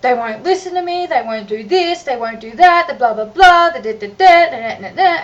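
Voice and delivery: loud, tearful mock sobbing complaint; retold crying. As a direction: act out a mum crying in despair. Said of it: "crying to the point where she's going".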